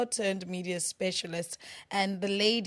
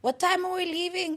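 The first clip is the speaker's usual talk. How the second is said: imitated quote; 10 semitones higher, 4 dB louder than usual. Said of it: "he's like".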